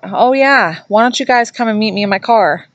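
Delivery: lightly voiced teasing blurt; smartass taunt. Smartass friend taunting the spirit, mild mock tease. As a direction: toss it out like a cocky joke. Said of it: "one of their friends blurted out".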